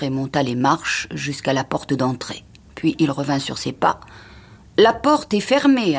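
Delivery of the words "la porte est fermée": high, louder, slow announcement; announcing. A narrator's reading. Chauffeur reporting back from the front door, slow announcement. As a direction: call the news down, word by word. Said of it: "annonça-t-il".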